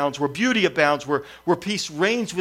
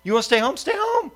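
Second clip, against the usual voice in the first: sharply rising, much higher exasperated snap; a retold angry outburst, louder and much higher; fuming dad; 11 semitones higher, 3 dB louder than usual. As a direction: lose your patience with the kid. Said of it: "I'm just fuming".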